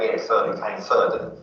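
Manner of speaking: Cockney with th said as f; casual Cockney demo; traditional Cockney. Shown as a demonstration. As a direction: put on a Cockney accent, fronting the th. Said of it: "also in traditional Cockney".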